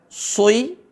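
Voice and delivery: "soi" with rounded o gliding to i; over-thicken the s into "soi"; common mistake. Shown as a demonstration. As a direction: demo the mistaken diphthong in "soi". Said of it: "Banyak yang baca dengan".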